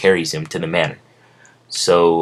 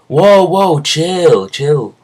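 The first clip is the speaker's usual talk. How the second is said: shouting to break it up; 10 semitones higher, 5 dB louder, much slower than usual. Acted. Crowd breaks up the fight.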